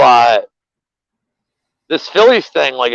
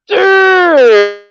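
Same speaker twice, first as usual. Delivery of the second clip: mock Pittsburgh fan; 7 semitones higher than usual. Mocking Pittsburgh fans to his co-host, high squealing gloat. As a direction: shriek it like a bragging rival fan, half laughing. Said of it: "Pittsburgh fans are like".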